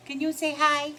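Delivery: high, loud coaxing voice; high sing-song pet voice. Real, not acted. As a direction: coo at the puppy. Baby talk to dog.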